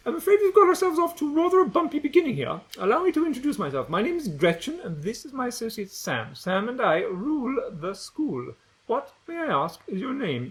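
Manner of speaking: high, fast, very proper bossy voice; haughty posh girl. Acted. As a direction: look down your nose at the new boy. Gretchen haughty introduction.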